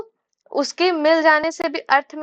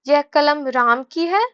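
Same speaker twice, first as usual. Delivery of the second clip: यह कलम राम की है with a rise on है; surprised; slower than usual. Shown as a demonstration. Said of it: "अगर हम आश्चर्य से बोलें". (आश्चर्य से यह कलम राम की है)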